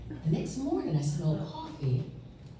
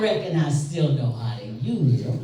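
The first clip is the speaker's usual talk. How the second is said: laughing; 4 dB louder than usual. Retold or imitated. Grandfather's retort, teller laughing.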